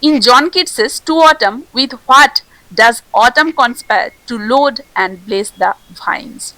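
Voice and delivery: slow, deliberate reading of a quiz question; unhurried exam question read. Acted. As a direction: read the question out slowly for the class.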